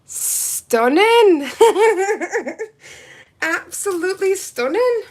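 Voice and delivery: high laughing gush; delighted laugh. Real, not acted. Gushing over polish shade.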